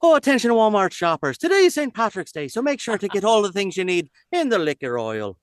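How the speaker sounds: high, loud mock PA announcement; hammed-up Walmart announcer; store announcer voice. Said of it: "every time we'd have a big announcement".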